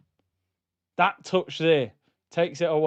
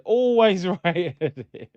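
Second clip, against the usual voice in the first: laughing; slower than usual. Real, not acted. Laughing at his own U-turn.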